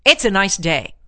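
"It's a nice day" as a firm statement, falling at the end; "It's a nice day" said evenly and decisively; flat-out declarative. Shown as a demonstration. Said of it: "flat out".

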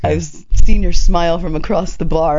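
slow, loud mock-suave come-on; imitating a stranger's corny pass; cheesy pickup line. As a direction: draw it out like a cheesy flirt. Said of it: "extra cheesy".

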